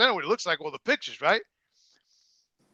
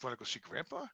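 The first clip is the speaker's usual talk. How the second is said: mock innocent; 5 semitones lower, 16 dB quieter than usual. Retelling a quiet sly invitation.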